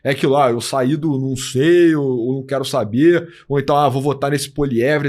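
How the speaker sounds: ordinary talk, nothing marked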